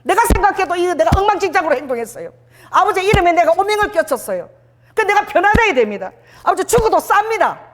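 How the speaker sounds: high-pitched pleading confession; preacher playing a penitent, voice pitched high; acted repentant confession. Acting out a repentant sinner's confession.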